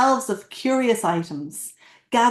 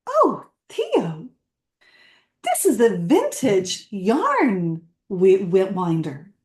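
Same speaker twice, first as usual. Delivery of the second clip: exclaimed with a smile; slower than usual. Acted. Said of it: "she exclaimed with a smile".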